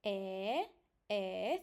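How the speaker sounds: "E" as the held open vowel of elephant; Romanian E. Shown as a demonstration. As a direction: draw out "E" as in elephant, not English "ee". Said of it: "take a look also on E".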